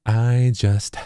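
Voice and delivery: "I just," with a small h breath after the T of just; breathy T release. Shown as a demonstration. Teaching vocal synth tuning, demoing the breathy T release. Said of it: "I add a little H exhale here after the T".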